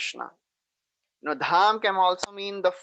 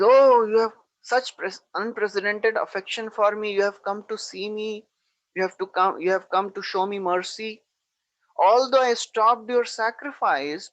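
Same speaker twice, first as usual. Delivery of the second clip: high, mocking praise of his mercy; teasing the ashamed king, ironic sweetness; sarcastic; 5 semitones higher than usual. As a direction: lay the flattery on with sarcasm. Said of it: "In a sarcastic voice".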